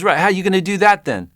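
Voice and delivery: retold furious director sneer; angry sarcastic director. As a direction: snap the challenge at the naked actor. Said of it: "And he got so angry".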